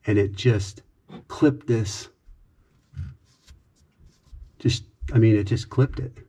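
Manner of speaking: loud, worked-up explaining; rattled and loud; agitated. Real, not acted. Agitated retelling of accident.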